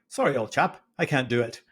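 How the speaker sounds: put-on half-hearted posh British accent; lightly faked British accent; terrible British accent. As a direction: attempt an upper-class Brit, badly. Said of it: "That's a terrible British accent".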